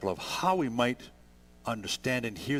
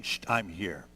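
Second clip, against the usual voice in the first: lower, settling hush; gently soothing mom; 4 semitones lower than usual. Acted. Mom going to the crying baby at night, gently soothing. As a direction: hush the baby with simple reassurance. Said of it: "mom is just simply saying".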